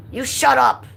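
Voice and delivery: loud high reading of chat; mock yell. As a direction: shout it back playfully. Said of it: "Michelle says".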